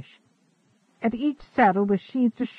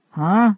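loud puzzled grunt huh; 3 semitones higher, 9 dB louder than usual. A narrator's reading. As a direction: grunt in confusion. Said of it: "grunted the blond man".

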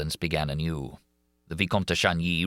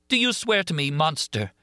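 Christine pleading; 10 semitones higher than usual. A narrator's reading. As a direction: beg him to swear, desperate. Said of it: "cried Christine".

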